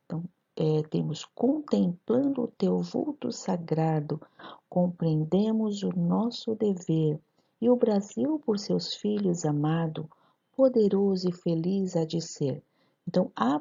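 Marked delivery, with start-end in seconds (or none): 1.2-12.6 poem recital. Shown as a demonstration. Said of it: "Vamos fazer juntos a análise". (leitura lenta e ritmada)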